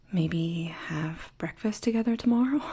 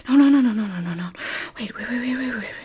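hurried rising no's and waits; panicked; 7 dB louder, much faster than usual. Acted. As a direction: blurt out alarmed protests. Panicked protest.

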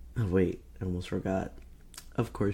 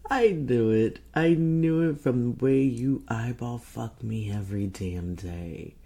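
louder, pitched-up "caught you"; gleeful triumph; 3 semitones higher, 5 dB louder than usual. Acted. Catching a partner's secret admission, gleeful triumph. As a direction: crow it loudly, then settle down.

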